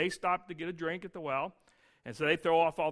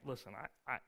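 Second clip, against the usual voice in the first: softer, hesitant pleading; a man quietly pleading with the tax collector; timid pleading; 6 semitones lower, 11 dB quieter, faster than usual. Retold or imitated. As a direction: beg for more time, small and nervous. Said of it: "So you say to the guy".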